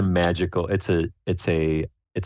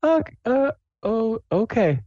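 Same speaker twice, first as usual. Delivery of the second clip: very high, faltering character voice; Sable; slower than usual. Acted. Player's character answering the hostess, high and hesitant. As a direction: squeak it out haltingly, unsure of yourself. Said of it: "She's, she's like".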